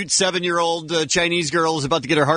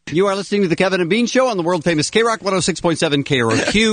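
radio announcer; 3 semitones higher than usual. Acted. Station ID read.

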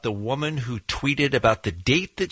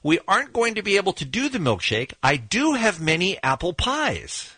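flat reading; 4 semitones higher than usual. Retold or imitated. Host quotes the tired McDonald's clerk, deadpan. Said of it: "he says flatly".

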